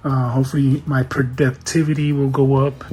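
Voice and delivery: breathless after lifting boxes; out of breath. Real, not acted. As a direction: talk while still catching your breath. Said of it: "I'm out of breath thanks to these Apple boxes".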